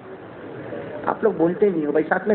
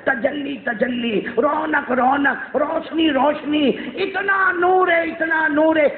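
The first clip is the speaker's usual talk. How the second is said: rapturous exclaiming; 6 semitones higher, slower than usual. Acted. Ecstatic description of divine light.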